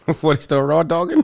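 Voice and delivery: laughing while asking. Real, not acted. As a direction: giggle through the question. Laughing teasing question.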